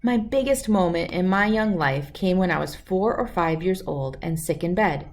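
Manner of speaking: put-on calm, clear storybook reading for kids; reading a story aloud. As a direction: read it like bedtime story time. Reads picture book aloud.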